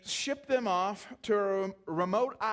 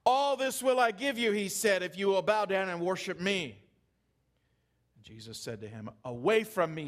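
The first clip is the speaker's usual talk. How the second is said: scripture reading. Acted. Reads scripture passage aloud.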